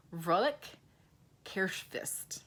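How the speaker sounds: Vrolijk Kerstfest said carefully in Dutch; Dutch greeting. Shown as a demonstration. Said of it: "this is how they say".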